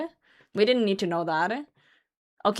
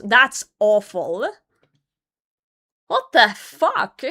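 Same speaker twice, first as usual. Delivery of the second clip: ordinary delivery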